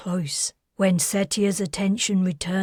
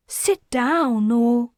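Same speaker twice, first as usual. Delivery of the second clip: gentle remonstrance; 3 semitones higher, 3 dB louder, slower than usual. Acted. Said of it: "the man's wife gently remonstrated".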